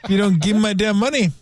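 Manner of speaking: an angry unpaid Irish builder, badly done; bad Irish accent. The builder threatening the owner, in a bad Irish accent. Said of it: "That was the worst Irish, uh, accent ever".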